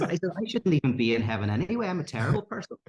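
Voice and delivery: agitated, acted-out confession; exasperated protest. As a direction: act out a man protesting his fate. Acted protest of trapped gambler.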